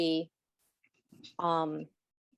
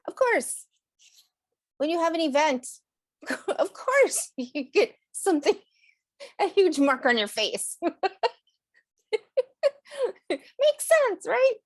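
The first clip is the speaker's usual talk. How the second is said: sarcastic; 9 semitones higher, 5 dB louder than usual. Real, not acted. Wry complaint about a scab.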